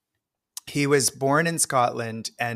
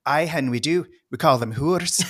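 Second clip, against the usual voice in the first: put-on Scottish accent; 4 semitones higher than usual. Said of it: "that's a good Scottish accent".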